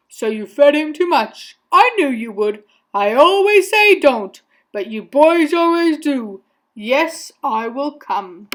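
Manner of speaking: lightly voiced scolding man, easing off; a hint of exasperated reproach, then resigned; Mister Carp. A narrator's reading. Shopkeeper chiding boy who overfed fish, mildly exasperated.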